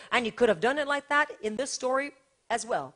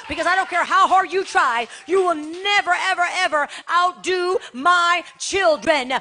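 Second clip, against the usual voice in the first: God's voice preached at full force, rising and louder; booming voice of the Lord, loud and high; voicing God; 4 semitones higher, 9 dB louder than usual. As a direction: thunder it out as the Lord declaring victory. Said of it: "God's like".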